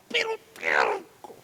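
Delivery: hushed whisper on "pero terco". Shown as a demonstration. Preacher stresses Jonah's stubbornness to the congregation in a whisper. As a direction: breathe "pero terco" as a secret.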